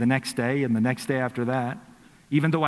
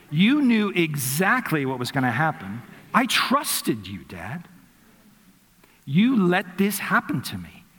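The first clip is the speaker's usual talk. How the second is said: put-on hurt toddler; 3 semitones higher than usual. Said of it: "the look was as if".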